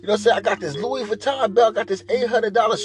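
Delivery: mock gossiping girl. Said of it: "Hit a conversation".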